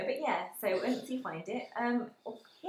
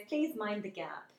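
announcer voice; much slower than usual. Retold or imitated. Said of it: "when the lady goes".

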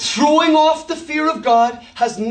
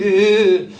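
disgusted eh; 5 semitones lower, 4 dB louder than usual. Retold or imitated. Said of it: "some of the women went".

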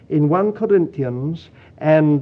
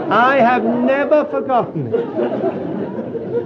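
spoken slowly through real laughter, higher; laughing; 9 semitones higher, 3 dB louder, much slower than usual. Real, not acted. Preacher still amused by the story, talking through laughter. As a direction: still laughing as the words come out.

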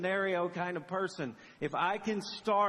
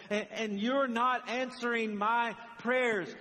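slow, higher-pitched insistent pleading; acted panicked prayer; 4 semitones higher than usual. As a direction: press each complaint on a silent God. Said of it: "you are panicking".

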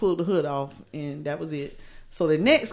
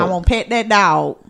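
put-on country accent; 6 dB louder than usual. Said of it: "he got a real country accent".

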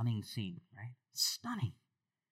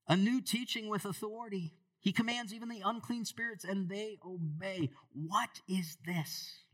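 higher, slowing astonished wonder; amazed crowd; 9 semitones higher than usual. Acted. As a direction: marvel aloud at his power. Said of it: "They were all amazed".

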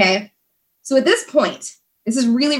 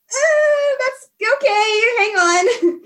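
very high, slow, flustered receptionist; 13 semitones higher, much slower than usual. Retold or imitated. Receptionist answers a desperate job seeker, high and flustered. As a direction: squeak it out like a caught-off-guard receptionist.

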